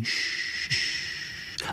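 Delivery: long hushed rustle of corn; rustling shh. A narrator's reading. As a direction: imitate the rustle with a drawn-out sh. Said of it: "ta šumí". (šumění kukuřice)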